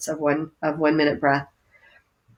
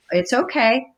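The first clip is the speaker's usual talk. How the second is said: reassuring; 4 semitones higher than usual. Pretend. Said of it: "What you wanna do is wanna go".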